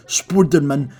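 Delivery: "Spider-Man" as "spudenmen"; Greek-accented "Spider-Man" with flattened vowels. Retold or imitated. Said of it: "weird way of saying English words".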